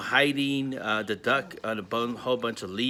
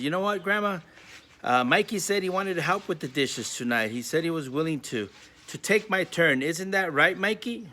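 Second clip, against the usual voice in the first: higher, sugary tattletale voice; sly little sister; 5 semitones higher than usual. Acted. Sister sweetly volunteering Mikey to Grandma, higher voice. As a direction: sweetly set her brother up.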